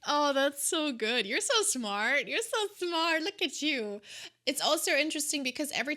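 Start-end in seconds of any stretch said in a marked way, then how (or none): 0.1-4.0 high sing-song teasing; teasing praise. Pretend. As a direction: gush playfully.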